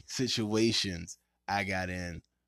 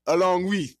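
spooky host voice, pitched up; slow theatrical villain menace; 7 semitones higher, 6 dB louder than usual. Pretend. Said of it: "I was doing, it's the Halloween episode".

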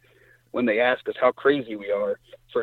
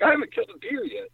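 mock whining brother; faster than usual. Brother jokingly complains about kills.

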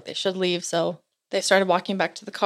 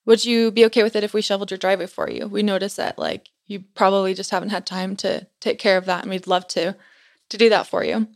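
polite missionaries. Retold or imitated. Missionaries politely offering help.

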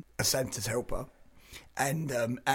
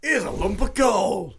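mock Santa scolding; 4 semitones higher, 4 dB louder, slower than usual. Santa scolding naughty kid.

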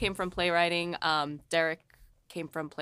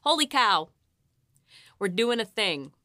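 higher, louder excited exclamation; retold amazement; 5 semitones higher, 8 dB louder than usual. Writer recalls hearing actors in studio, retold amazement. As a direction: exclaim it as a thrilled realisation. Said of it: "it really became like".

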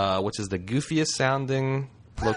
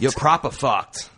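mock Cockney; 2 semitones higher than usual. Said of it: "Some sort of Cockney".

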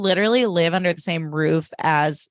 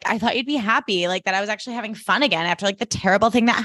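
unhinged Jenny; 3 semitones higher, faster than usual. Retold or imitated. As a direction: rattle it off like she's coming apart. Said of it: "She's, like, unraveling".

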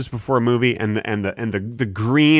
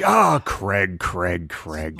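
Swedish Chef voice; 7 semitones lower, 4 dB quieter, much slower than usual. Pretend. Echoes the chef gibberish.

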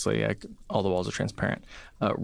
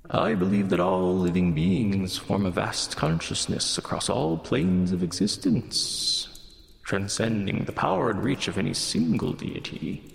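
sing-songy voice. Acted. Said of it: "Almost sing-songy voice".

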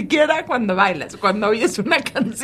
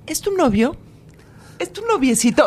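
imitating a señora; 3 semitones higher than usual. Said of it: "las señoras dicen mucho".

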